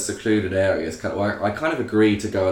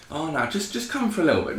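pushy stranger; 8 semitones higher than usual. Retold or imitated. Stranger pressing him to come.

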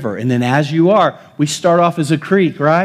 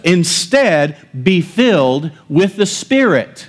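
"Instead, be filled with the Spirit" slow and punched; deliberate weight on "Instead, be filled with the Spirit"; emphatic scripture reading; 4 semitones higher, slower than usual. Shown as a demonstration. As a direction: stress "Instead" and "filled", phrase by phrase. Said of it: "That is where the emphasis is".

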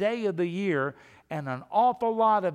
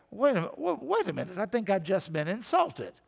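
Curly; 2 semitones higher than usual. Acted. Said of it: "one of the Three Stooges".

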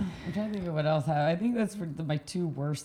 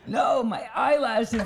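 mock protest; 5 semitones higher, much slower than usual. Retold protest to the instructor.

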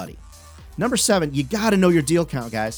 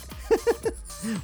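sudden high-pitched giggle; 5 dB quieter than usual. Real, not acted. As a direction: giggle at own joke. Laughs at crazy career.

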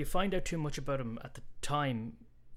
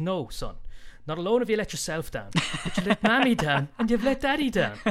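angry dad balloon; 6 semitones higher, 6 dB louder than usual. Acted. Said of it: "And he goes".

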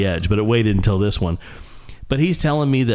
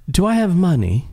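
higher, lightly voiced naive question; clueless rock star; 8 semitones higher than usual. John asking his road manager about money, mild naive voice. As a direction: ask it like a lost child. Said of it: "he turns around to his road manager and he says".

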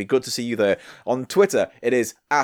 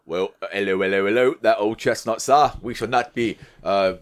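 hammed-up officious copper; policeman impression. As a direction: play a mock bobby making an arrest. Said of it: "Good impression of a policeman".

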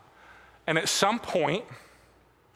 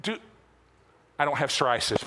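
deadpan dude; 3 semitones lower, faster than usual. Retold or imitated. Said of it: "It's like".

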